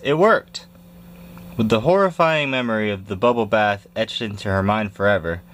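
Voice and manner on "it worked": much higher, excited cry; triumphant cheer. Acted. The Big Cheese cheering as the dog flees. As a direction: cheer the win out loud.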